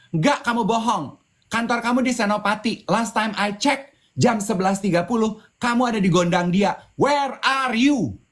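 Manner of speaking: high, pointed accusing voice; accusing girlfriend. Retold or imitated. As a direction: nail him with the facts.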